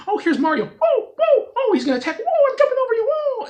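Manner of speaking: high, loud, excited gasps while playing; excited gaming reaction. Real, not acted. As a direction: yelp it out like a surprised gamer. Reacting to gameplay onscreen.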